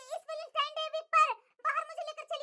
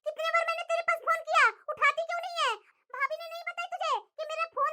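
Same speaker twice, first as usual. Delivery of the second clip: scolding daughter. Acted. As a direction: nag her mother hard. Daughter scolding her mother.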